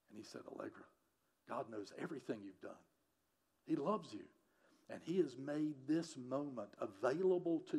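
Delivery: gentle, hushed sermon storytelling; hushed tender storytelling. Acted. Tender hushed telling of conversion.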